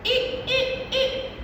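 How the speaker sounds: high, stretched short I sound; letter sound I. Shown as a demonstration. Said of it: "What sound does the letter I make?".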